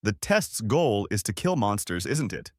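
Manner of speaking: even, unbothered reply; flat reply. Acted. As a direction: say it like it's obvious, no effort. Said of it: "he replied flatly".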